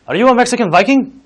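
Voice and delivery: playful loud question; incredulous outburst. Real, not acted. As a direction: blurt it out, half laughing. Joking outtake, sudden outburst.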